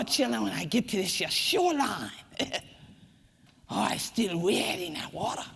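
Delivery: rhythmic creole chant, rising and falling in waves; Gullah storytelling recitation. Acted. Griot telling her people's water story to an audience.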